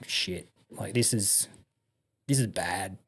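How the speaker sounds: half under the breath, retelling the moment of dread; muttered to himself. Retold or imitated. Seeing the lav hanging off the trailer, soft worried mutter.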